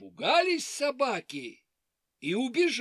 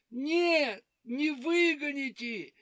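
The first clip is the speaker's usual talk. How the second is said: hare voice; 6 semitones higher than usual. Acted. Hare doubts.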